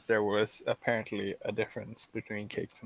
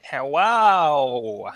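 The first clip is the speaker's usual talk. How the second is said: Igor voice; 2 semitones higher, 8 dB louder than usual. Acted. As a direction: growl out a slow hello like Igor. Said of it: "not like fucking Igor".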